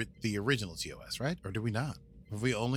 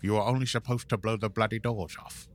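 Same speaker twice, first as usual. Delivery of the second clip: lightly done Cockney Michael Caine; a hint of a Cockney film gangster; half-hearted Cockney heist line; Michael Caine impression. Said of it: "Michael Caine".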